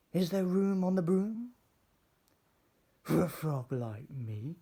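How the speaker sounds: a hopeful frog croaking his plea. Acted. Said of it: "then said with a croak".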